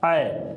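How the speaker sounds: ऐ said open and clear; model vowel. Shown as a demonstration. Teacher to students, demonstrating ऐ. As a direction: sound out ऐ. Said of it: "क्या होता है?".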